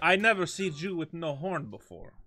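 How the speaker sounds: put-on loud comic Borat accent. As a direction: ham up a Borat impression. Borat impression continues.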